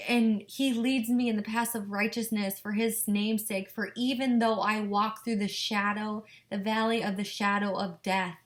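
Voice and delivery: earnest devotional reading; fervent scripture recitation. Acted. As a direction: proclaim the psalm with feeling. Reciting psalm to husband.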